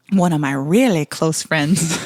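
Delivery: put-on slow, slipping Irish accent; Irish accent fading away. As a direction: stretch it out in an amateur Irish accent. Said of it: "I'm losing my Irish accent here".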